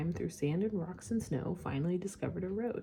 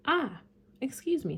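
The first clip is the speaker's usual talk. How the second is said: little prince voice; 7 semitones higher, 5 dB louder than usual. Acted.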